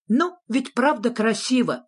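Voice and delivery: high, anxious little voice; high-pitched jittery question; nervous. A narrator's reading. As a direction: ask nervously, fishing for approval. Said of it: "нервозно спросил зверок-шнурок".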